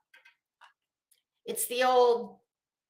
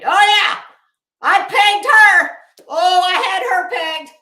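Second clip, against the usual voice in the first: mock quote of Molly; 5 semitones higher, 11 dB louder than usual. Mocking Molly's own words.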